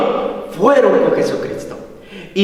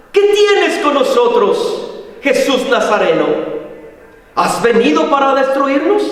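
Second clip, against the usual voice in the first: high-pitched mock outcry of a possessed man; retold cry; 6 semitones higher than usual. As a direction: cry out in challenge, without full shouting. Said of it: "grita diciendo".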